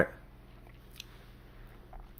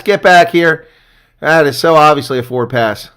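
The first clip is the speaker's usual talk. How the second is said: indignant call; 4 semitones higher, 5 dB louder than usual. Real, not acted. Still protesting the pass.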